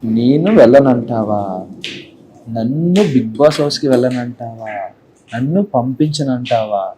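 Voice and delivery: slow, low, mildly menacing psycho voice; a hint of a psycho villain. Shown as a demonstration. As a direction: taunt slowly like a film psycho. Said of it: "psycho".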